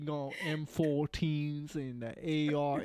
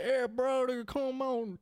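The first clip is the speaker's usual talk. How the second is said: put-on Southern accent; 4 semitones higher than usual. Calling a buddy down with the boat to go fishing, mock Southern accent. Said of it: "the stupid Southern bullshit".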